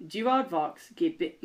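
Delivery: put-on slow try at an Australian accent. Redeeming himself to the co-host with a slow Australian accent. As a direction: start reading in a light Australian accent. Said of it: "let me read some more in an Australian accent".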